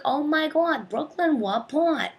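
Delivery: put-on high, loud, shocked old-lady voice; gasping old lady. Old lady neighbor gasping at the word Brooklyn. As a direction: squeal it like a scandalized neighbor. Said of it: "And they'll be like".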